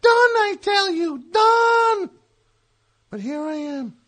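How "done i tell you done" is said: hammed-up despair, ending in a shout; dramatic Gary voice. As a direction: overdramatic lament.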